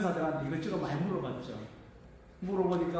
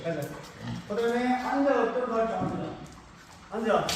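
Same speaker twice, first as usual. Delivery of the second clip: talking to a pig; 2 semitones higher than usual. Real, not acted. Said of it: "그걸 한번 보여드릴게요".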